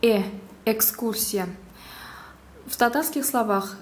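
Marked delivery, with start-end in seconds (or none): 0.0-1.5 э as in Russian экскурсия; teacher's demo of Russian э in «экскурсия»; Russian-style э. Shown as a demonstration. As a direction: say «Э», «экскурсия» with the ordinary Russian e vowel. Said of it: "произносится так же, как в русском языке".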